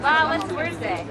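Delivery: real surprise, drawn out and loud; surprised wow. Real, not acted. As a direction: let the surprise ring out. Surprised at empty turnout.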